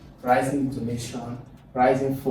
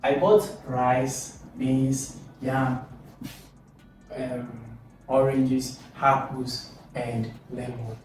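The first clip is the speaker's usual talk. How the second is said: level items, LEMON dropping at the end; list intonation; slower than usual. Shown as a demonstration. Teacher demonstrating a shopping list, list intonation with final fall. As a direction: list each item apart, fall on LEMON. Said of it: "Example of intonation in a list".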